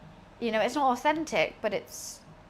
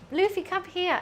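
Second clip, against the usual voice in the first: high calling voice; 6 semitones higher, 4 dB louder than usual. Real, not acted. Calling the cat over.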